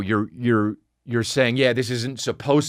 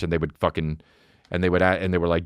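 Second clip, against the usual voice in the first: usual speaking voice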